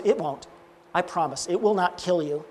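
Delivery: calm their fear quietly; gently acted reassurance; reassuring. Angel reassures the frightened man.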